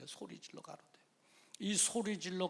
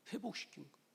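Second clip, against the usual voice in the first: soft echo; 11 dB quieter, faster than usual. Acted. Preacher softly echoing his point to the congregation. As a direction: let it settle quietly.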